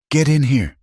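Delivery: sharp order, pitched well up; furious order. A narrator's reading. May orders the beaten Eli inside, furious order. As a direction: order him in, high and angry. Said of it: "she ordered".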